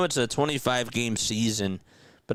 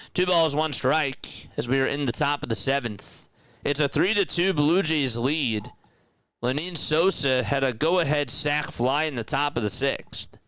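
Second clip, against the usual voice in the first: higher-pitched live baseball call; play-by-play; 6 semitones higher than usual. Real, not acted. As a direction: call the game for listeners.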